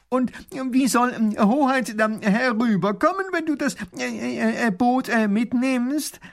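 high, loud hesitant professor full of ums; flustered professor; stammering professor. Acted. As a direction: fumble the question. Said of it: "fragt Pfiffikus".

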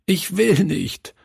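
put-on high, pleading sob-talk of a boy; a hint of a sobbing boy refusing to move house; sobbing child. A narrator's reading. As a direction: beg through tears, high and small. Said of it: "schluchzte er".

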